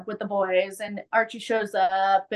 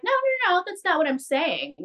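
mock-urgent denial, pitched up at first; retold protest; 8 semitones higher, faster than usual. Acting out Tony Todd's urgent denial.

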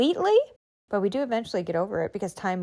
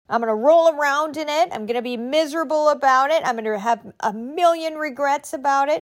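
stuck self-pity; 4 semitones higher, 4 dB louder than usual. Retold or imitated. Voicing someone stuck in judgment.

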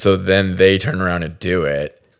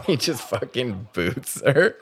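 squeaky laugh; 6 semitones higher, 3 dB quieter, slower than usual. Real, not acted. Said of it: "Oh God, I just squeaked".

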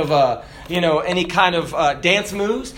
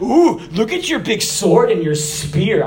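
laughing mockery. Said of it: "I think he mocked him".

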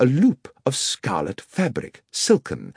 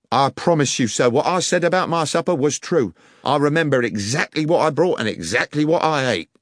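a lightly voiced guard pleading, higher; earnest guard; 8 semitones higher, 4 dB louder than usual. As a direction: insist on your honesty, mildly. Guard insists to Holmes.

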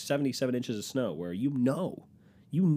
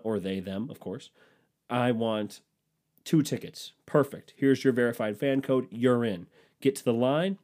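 cheerful agent voice. Acted. Acted ideal Ticketmaster agent.

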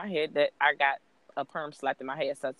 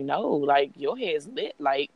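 reassuring mom; 4 semitones higher than usual. Retold or imitated. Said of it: "and I'm just like".

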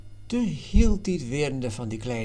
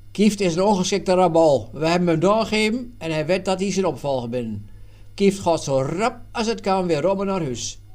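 indignant scorn; 5 semitones higher, 7 dB louder than usual. Acted. Schouten scorns the failed governor.

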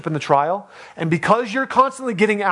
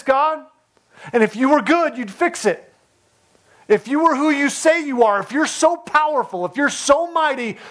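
complaining to God; 7 semitones higher than usual. Retold or imitated. Preacher voices believers demanding God turn off the fire, pleading and accusing. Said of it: "ask the same question they asked".

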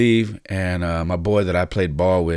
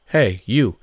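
high, loud, eager call to get his attention; excited mom; 5 semitones higher, 5 dB louder than usual. Retold or imitated. Mom from the bleachers calls out to the coach, high and loud. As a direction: imitate a mom marching up to you, higher and louder.

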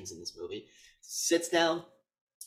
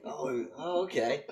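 higher, hesitant acted reaction; a touch of put-out politeness; mildly frustrated; 5 semitones higher, slower than usual. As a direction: imitate someone trying to hide irritation. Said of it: "like, getting frustrated".

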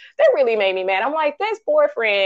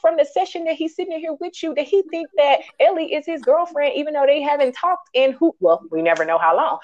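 exasperated rant; 8 semitones higher than usual. Retold or imitated. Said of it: "But I'm like".

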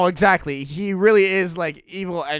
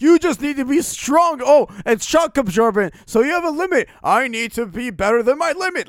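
Rock Lee; 5 semitones higher than usual. Retold or imitated. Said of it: "It was so Rock Lee-esque".

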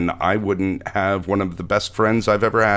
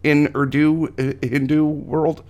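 mocking high voice; 9 semitones higher than usual. Mocking high-pitched tease.

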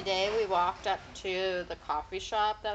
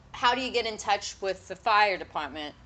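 demonstrated Long Island accent on "fire"; 4 dB louder than usual. Shown as a demonstration. Showing friend how to test mom, Long Island accent. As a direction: put Long Island vowels on the question. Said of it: "she has a Long Island accent".

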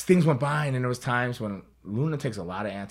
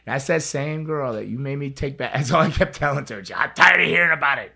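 exasperated retort; 7 semitones higher, 11 dB louder than usual. Retold or imitated. Retold argument in the locker room.

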